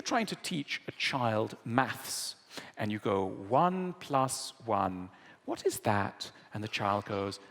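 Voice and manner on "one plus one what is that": slow, gentle, patient teacher voice. Retold or imitated. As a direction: spell it out slowly for a small child. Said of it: "very patient".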